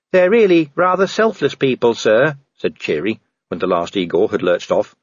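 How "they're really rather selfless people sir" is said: higher-pitched, respectful subordinate; earnest dwarf officer. Acted. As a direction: speak up earnestly in a raised pitch. Voices Cheery the dwarf.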